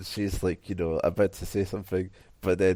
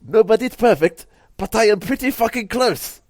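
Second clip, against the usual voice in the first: laughing; 12 dB louder than usual. Real, not acted. Laughing reply to drunk joke.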